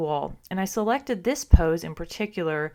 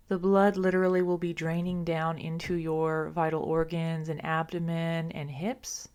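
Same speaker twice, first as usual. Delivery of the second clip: calm, unhurried yoga guidance with long pauses; guided restorative meditation. Acted. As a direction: settle them gently into the pose. Guides listeners into restorative pose.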